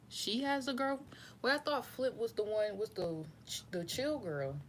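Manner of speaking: sudden high-pitched surprise; rising surprise at realizing the mistake; surprised. Real, not acted. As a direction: jump up in pitch, caught off guard. Surprised at her own mixup.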